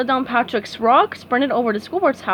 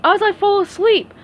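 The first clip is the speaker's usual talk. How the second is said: Patrick voice; 9 semitones higher, 6 dB louder than usual. A narrator's reading. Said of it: "continued Patrick".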